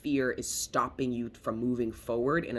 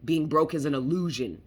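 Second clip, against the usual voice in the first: voice of the universe; 4 dB louder than usual. Retold or imitated. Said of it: "the universe goes".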